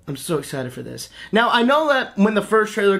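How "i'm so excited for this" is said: softer, hushed and contented; hushed excitement. Real, not acted. Fan confiding to viewers, quietly thrilled. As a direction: say it softly, savoring it. Gushing about the Pooh movie.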